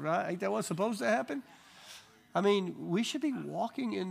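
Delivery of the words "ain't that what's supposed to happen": put-on higher, rising childlike question; childlike innocence. Preacher repeats the boy's words to the congregation. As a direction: echo the boy's innocent wonder. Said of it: "Faith of a child".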